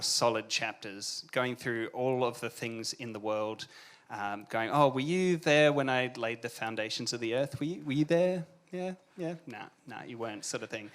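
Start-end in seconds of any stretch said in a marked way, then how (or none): 4.7-9.3 mock questioning, climbing higher as it goes; sarcastic grilling, pitched up at the end. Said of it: "just being really sarcastic". 9.5-10.4 dropped, dismissive sarcastic answer; sarcastic brush-off. Acted. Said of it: "just being really sarcastic".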